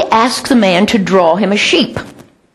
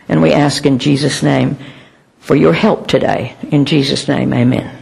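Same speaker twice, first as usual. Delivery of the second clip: closing prayer; 5 semitones lower than usual. Real, not acted. Closes the opening prayer.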